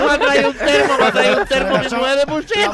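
high, loud talk through scalding food; mouth full of hot food. Pretend. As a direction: speak around a burning mouthful. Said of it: "me va a quemar torcido la boca".

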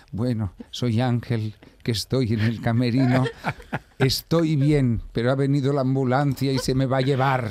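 slow, halting address over a microphone; mock backstage announcement. Sick performer tells the audience from the dressing room, slow mock announcement. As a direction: draw it out as if announcing while faint. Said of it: "Y yo con el micro hablando con las personas".

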